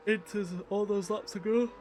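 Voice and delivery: words stretched through a yawn. Real, not acted. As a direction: talk while yawning. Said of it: "I do apologise for that yawn".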